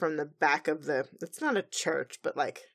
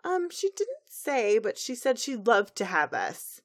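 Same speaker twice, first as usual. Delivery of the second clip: chirpy friend covering for the bride; lightly voiced pony friend; mock friend voice; 5 semitones higher than usual. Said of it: "new bridesmaids".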